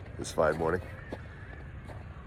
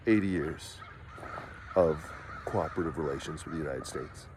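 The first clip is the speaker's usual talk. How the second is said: lower, softer, lightly done smug politician; Mark Carney impression; 3 semitones lower, 4 dB quieter than usual. Mocking the prime minister for viewers, lower, softer impression. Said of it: "and talk the way that he does".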